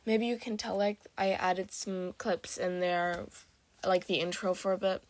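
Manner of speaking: groggy morning voice; just-woke-up rough voice. Real, not acted. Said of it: "really weird morning voice".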